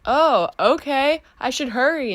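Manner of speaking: lightly voiced girl catching on late; mock startled girl. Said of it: "the girl's like".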